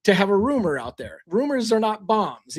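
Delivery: slow, emphatic scoffing; deliberate slow put-down; dismissive. Retold or imitated. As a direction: spell it out slowly, unimpressed. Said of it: "and I'm like".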